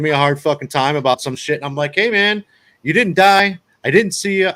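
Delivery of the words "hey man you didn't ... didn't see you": mildly protesting, reasoning with him; retold protest. Driver to the angry old timer, mild retold protest.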